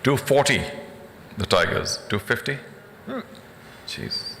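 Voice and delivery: hiccuping between bids; words broken by hiccups. Real, not acted. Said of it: "Sorry about the hiccups".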